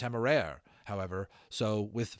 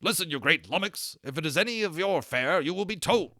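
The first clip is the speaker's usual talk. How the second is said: loud, higher bellow at a big dragon; exasperated shout; 6 semitones higher, 6 dB louder than usual. A narrator's reading. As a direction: yell him back into line, fed up. Berkeley yells at his dragon.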